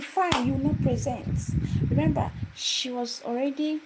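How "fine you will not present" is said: high, loud, cutting ultimatum; angry ultimatum. Retold or imitated. Lecturer barring the student from presenting, high loud ultimatum. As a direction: slam the door on her.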